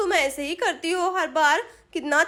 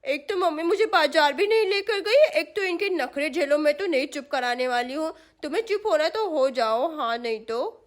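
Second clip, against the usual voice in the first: put-on fed-up little girl. Sonam won't soothe crying Shyam, huffy child voice. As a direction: grumble like a small sister washing her hands of it.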